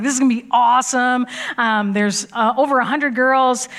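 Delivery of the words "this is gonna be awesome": fast, louder eager cheer; excited anticipation. Retold or imitated. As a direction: rush it out with excitement. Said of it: "I was like".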